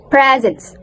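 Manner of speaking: "presence" said as PREZ-ens with voiced Z; model pronunciation. Shown as a demonstration. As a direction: demonstrate "presence" for repeating, Z in the middle. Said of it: "Repeat after me".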